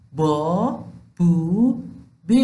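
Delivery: ب joined to the long vowels, با بو بی; teacher drilling ب with long vowels; syllable drill. Shown as a demonstration. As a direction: sound ب with each long vowel. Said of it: "با صدادارهای بلند".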